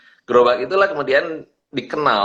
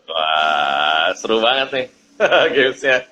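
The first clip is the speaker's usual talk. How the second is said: laughing; 5 dB louder than usual. Real, not acted. Excited greeting with laughter.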